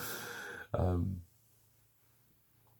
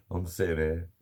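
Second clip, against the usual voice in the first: normal talking voice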